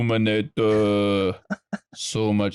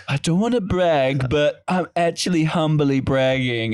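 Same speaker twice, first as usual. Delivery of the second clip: raised, mocking humblebrag voice; mock humblebragger; 4 semitones higher, 3 dB louder than usual. Mocking a friend who humblebrags. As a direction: send up someone bragging. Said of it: "your inner Jessica coming out".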